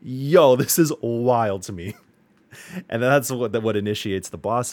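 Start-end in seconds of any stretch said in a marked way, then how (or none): 0.0-1.9 loud, high burst of disbelief; excited exclaim. Retold or imitated. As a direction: blurt it out like you can't believe it. Reacting to shocking boss scene.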